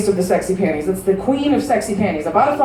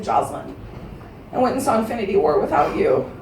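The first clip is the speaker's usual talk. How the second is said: small guilty confession voice; a touch of sheepish friend; 4 semitones lower, 6 dB quieter than usual. Retold or imitated. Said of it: "She's like".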